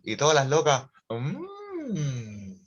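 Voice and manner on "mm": savouring hum. Retold or imitated.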